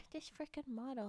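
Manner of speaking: mock sob through the line; fake crying. Streamer fake-crying at her model, mock sob. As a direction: pretend to cry, half-joking. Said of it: "did I stop crying?".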